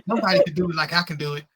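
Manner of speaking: mocking possessive voice.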